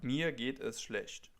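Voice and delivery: Mir geht es schlecht said slowly, German ch in schlecht; slow down on Mir geht es schlecht and soften the ch. Shown as a demonstration. Teacher repeating a gloomy reply slowly for learners. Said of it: "if you feel not so great".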